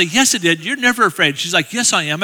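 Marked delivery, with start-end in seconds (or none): 0.0-1.4 mildly contradicting, pitch climbing; acted-out bickering. Husband disputing his wife on stage, mock bickering. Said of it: "we actually will have an argument". 1.7-2.2 light mock retort; acted-out bickering. Wife answering her husband's denial, mildly contradicting. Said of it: "we actually will have an argument".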